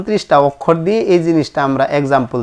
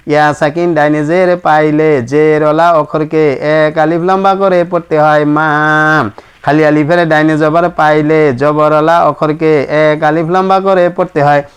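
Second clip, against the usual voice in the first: measured sing-song rule recitation; steady classroom recitation; recited rule. Shown as a demonstration. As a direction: recite it evenly like a memorized lesson.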